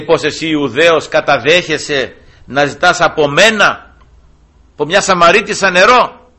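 a hint of the astonished Samaritan woman; mock Samaritan woman. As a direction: voice her doubt, building up to the water. Samaritan woman questions Jesus.

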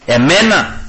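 mock indignant question; affronted disbelief. Preacher playing a proud man who was struck, affronted. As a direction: act out someone taken aback at being challenged.

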